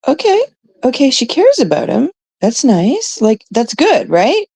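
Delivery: sing-song reluctant approval; voicing her own thoughts in a bright high tone; high-pitched okay. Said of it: "And I'm like".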